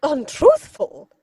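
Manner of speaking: slow, rising disbelief; incredulous echo. Acted. Lady Bracknell echoing Jack's charge in disbelief. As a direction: repeat the word as if it were absurd.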